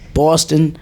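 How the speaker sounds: put-on tentative Boston accent. Comedian unsure if he's doing it good, attempted Boston accent. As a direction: try the Boston vowel, unsure. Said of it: "Is that how they say it?".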